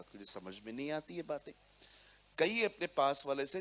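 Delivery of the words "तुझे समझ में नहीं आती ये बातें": blunt informal rebuke. Retold or imitated. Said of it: "थोड़ा तू करके बात करूंगा".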